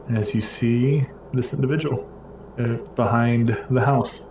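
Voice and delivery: ordinary talk, nothing marked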